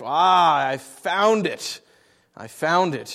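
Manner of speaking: slow, drawn-out eureka; mock triumph. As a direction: savour a pretend discovery. Mock triumphant discovery in the text.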